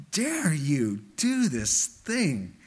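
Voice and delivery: slow, imitated indignation; outraged Paul. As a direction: voice Paul's outrage one word at a time. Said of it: "I'm outraged by this".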